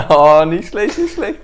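ironic praise. Real, not acted. Host mock-praises friend's grim uncle remark, ironic squeal.

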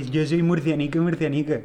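imitated Murcian accent, put on; forced Murcian accent. Mocking a singer's forced regional pride, Murcian accent. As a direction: lightly overdo a Murcian accent. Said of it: "además se nota súper forzado".

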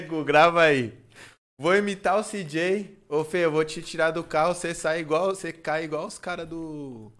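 loud, excited call to his friend; loud hyped call. Retold or imitated. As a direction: shout it out, all hyped up. Hyped telling friend to film.

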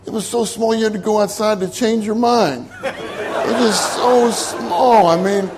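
laughing through the joke. Real, not acted. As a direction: chuckle while describing the tiny room. Joking about tiny room, laughing.

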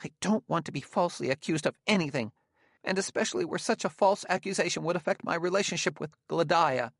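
high, urgent protest; intense. A narrator's reading. Gramianus protesting a false accusation to Bailey, intense. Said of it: "He said intensely".

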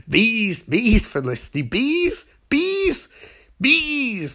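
high, squeaky repeated cries; mock exasperation. Barry ranting at Felicity about bees, mock-exasperated squeals. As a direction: send each word shooting up high.

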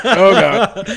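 laughing. Real, not acted. Friend chugging soda, others laughing.

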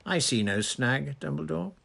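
joyous, lifted assurance; vibrating with joy. A narrator's reading. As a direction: wave the objection away, elated. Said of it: "his voice still vibrating with joy".

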